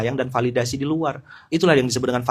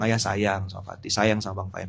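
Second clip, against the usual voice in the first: soft, slow, lower loving words; tender father; 5 semitones lower, 7 dB quieter than usual. Retold or imitated. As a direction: murmur love into the child's ear. Father tells son he loves him.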